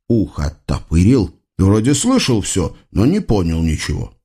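usual speaking voice

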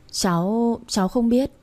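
put-on a small girl stuttering in fright; scared child. Frightened little girl answering the angry man, stammering.

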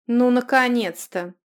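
loud, slow exasperated cry; loud exclamation. Acted. Runika greets the returning pair with loud relief. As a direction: throw up her hands at last. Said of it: "воскликнула Руника".

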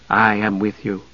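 soft, hushed reassurance; quietly voiced, close to a whisper; lightly hushed, as a voice in the mind. A narrator's reading. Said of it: "came a whisper".

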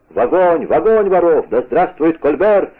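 contained roar, stretching the final cheer; roaring crowd. A narrator's reading. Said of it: "продолжала реветь толпа".

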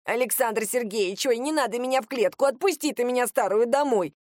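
put-on pleading old woman, lamenting; wailing grandma. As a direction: whine like a begging granny. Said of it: "запричитала бабулька".

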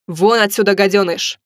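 restrained narrated yell; angry yell. A narrator's reading. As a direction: order him out with contained fury. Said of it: "заорал Алекс". (сдержанный гневный окрик)

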